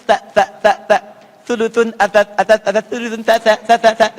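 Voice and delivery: "Sa" as voiceless th, tongue tip bitten; loud drilled "Sa" like English thin; Arabic tsa. Shown as a demonstration. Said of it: "digigit tapi di ujung sedikit".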